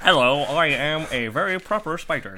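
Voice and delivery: prim, proper spider voice with a laugh. Acted. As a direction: play a very polite spider, half laughing. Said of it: "That's your spider voice".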